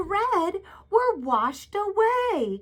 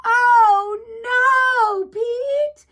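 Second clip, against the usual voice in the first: high, loud storybook alarm; oh no gasp; 8 semitones higher, 4 dB louder, much slower than usual. Acted. Gasp at Pete stepping in mud.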